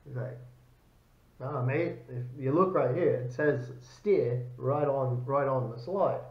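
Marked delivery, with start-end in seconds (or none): 1.4-6.2 bad Australian accent. Australian soldier pointing out the rifle's name, botched Australian accent. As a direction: have a clumsy go at an Australian accent. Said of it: "I'm probably screwing up the accent".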